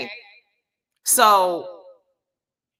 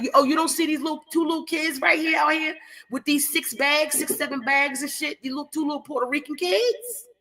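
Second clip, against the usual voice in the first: high-pitched incredulous questioning, rushing in; retold disbelief, pitch held high to the end; incredulous retelling; 6 semitones higher than usual. Pointing out two kids to a security guard, incredulous.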